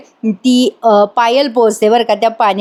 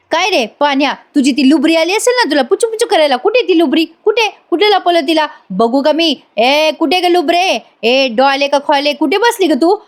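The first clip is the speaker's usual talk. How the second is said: higher-pitched mock scolding, not truly shouted; retold angry ranting; 5 semitones higher than usual. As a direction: imitate a jealous girlfriend hunting her rival. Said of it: "आरडाओरडा करत असते". (रागावलेल्या आरडाओरड्याची नक्कल)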